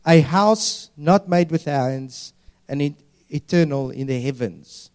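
slow, measured Bible verse; scripture reading. Acted. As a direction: read it out deliberately, as proclamation. Reads scripture aloud.

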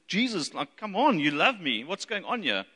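mildly exasperated, swooping appeal; frustrated. Acted. Preacher acts a believer challenging Jesus, mildly frustrated. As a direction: plead with a touch of frustration. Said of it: "you're frustrated at God".

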